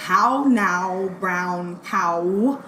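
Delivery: "How now, brown cow" recited in measured, separate phrases; elocution drill. Retold or imitated. Student drilled by speech professor to lose accent, careful elocution recital. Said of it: "make me say".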